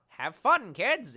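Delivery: high, loud cartoonish cheer; mock cheer. Streamer mimics an arcadey game, hammed-up cheer. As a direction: bark it like a cheesy game ad.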